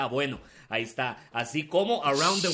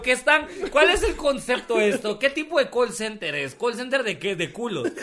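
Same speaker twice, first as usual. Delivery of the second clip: mock indignant; 5 semitones higher, 3 dB louder than usual. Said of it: "Digo yo".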